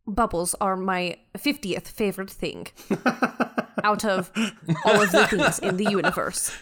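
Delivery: measured, self-assured ship's mind; a hint of haughty superiority; lightly voiced imperious Beth. Beth schooling the crew on the bridge, lightly haughty.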